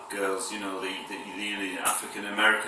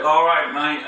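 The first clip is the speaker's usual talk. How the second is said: loud, higher-pitched northern English twang; 5 semitones higher, 7 dB louder than usual. Shown as a demonstration. Demonstrating his northern English twang to YouTube viewers, broad accent. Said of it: "I go into northern twang".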